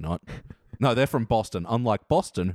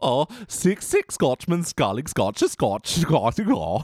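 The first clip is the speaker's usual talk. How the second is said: playful mock German accent; put-on German voice; 2 semitones higher, slower than usual. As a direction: attempt the tongue twister in a German accent. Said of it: "Now say it with a German accent".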